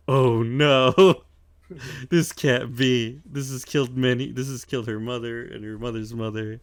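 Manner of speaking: put-on old lady. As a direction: ham up a doomed granny's lament. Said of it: "and the old lady's like".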